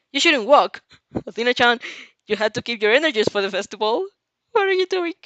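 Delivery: excited. Acted. Inasa fussing loudly.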